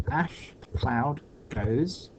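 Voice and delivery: Ash cloud goes towards, drawn out very slowly; counting beats slowly aloud; slow syllable count. Shown as a demonstration. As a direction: stretch every syllable to count it. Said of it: "so we've got one, two, three".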